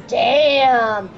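admiring. Acted. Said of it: "Rex goes".

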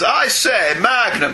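lightly put-on old-chap voice; a hint of hammed-up English gentleman; mock upper-crust British. Parodying the villain's dialogue for a co-host, mock upper-crust British. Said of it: "kind of voice, can't you?".

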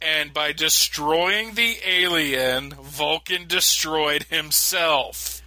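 drawn-out fake gravity; slow mock solemn. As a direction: intone it slowly like a cover story. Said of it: "That's what we're telling everybody".

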